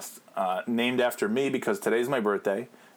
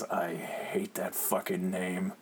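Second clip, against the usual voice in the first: sulky mutter; 2 semitones lower, 4 dB quieter, slower than usual. Retold or imitated. Sulking friend refuses in car.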